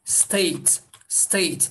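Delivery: "State" as steyt, closing on t; clear t ending. Shown as a demonstration. Teacher lets learners hear the last sound, clear t. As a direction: say "State" with a crisp final t. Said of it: "Nasıl bir ses çıkıyor?".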